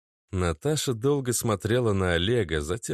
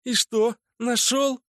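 high incredulous scorn; scornful echo; 3 dB louder, slower than usual. A narrator's reading. Natasha scoffs at Oleg's word. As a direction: throw his word back.

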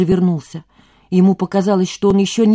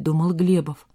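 ordinary delivery, nothing marked

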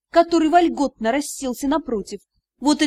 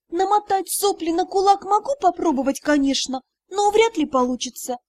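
snide joke; 5 semitones higher than usual. Acted. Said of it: "ехидно добавила".

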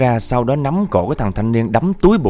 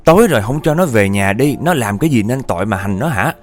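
raised, indignant tirade; acted angry cursing; 2 semitones higher than usual. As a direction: berate spirits on the neighborhood's behalf. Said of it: "lần này thì bà chửi dữ hơn lần trước".

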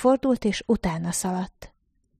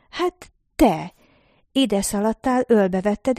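insistent accusation; 2 semitones higher, 4 dB louder than usual. A narrator's reading.

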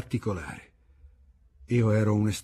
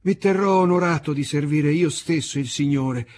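put-on old waiter's voice; 6 semitones higher, 6 dB louder than usual. A narrator's reading.

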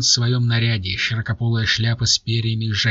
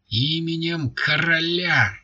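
higher, slow proclamation, lightly voiced officer; growled command; 7 semitones higher, slower than usual. A narrator's reading. Officer arresting Lafayette, mild mock growl. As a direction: call it out slowly like a lightly played guard. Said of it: "прорычал первый денди".

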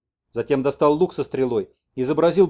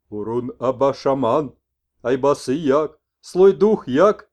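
shaman messenger; 7 dB louder, slower than usual. Acted. Messenger explains to the old man why he eats the mushroom, slow. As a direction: stretch the last words.

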